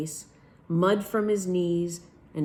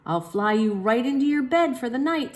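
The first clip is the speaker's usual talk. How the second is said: playful; 8 semitones higher, 5 dB louder than usual. Acted. Father playing airplane.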